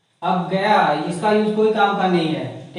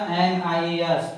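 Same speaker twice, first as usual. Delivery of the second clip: an I A S spelled out slowly and a little lower; slow answer; 3 semitones lower, much slower than usual. Shown as a demonstration. Teacher slowly giving the answer to the class. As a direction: reveal the answer deliberately. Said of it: "क्या हो जाएगा".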